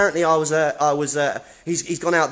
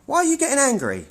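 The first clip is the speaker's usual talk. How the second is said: goading; 8 semitones higher than usual. Real, not acted. Goading staff again.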